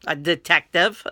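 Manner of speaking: repeating the word through a laugh. Retold or imitated. Laughing as he tells her his job again. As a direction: chuckle it out.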